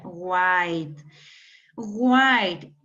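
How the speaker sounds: WHY said slowly and distinctly as a model; careful pronunciation. Shown as a demonstration. Teacher reminding student how it is pronounced, careful model WHY. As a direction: pronounce WHY with a clear, drawn-out vowel glide. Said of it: "No se me olvide cómo se pronuncia".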